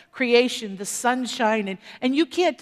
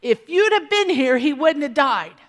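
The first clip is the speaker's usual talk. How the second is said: higher, louder reproachful plea; the same blame from the other sister; lightly voiced grieving reproach; Mary's complaint; 3 semitones higher, 5 dB louder than usual. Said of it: "Mary's gonna say the exact same thing".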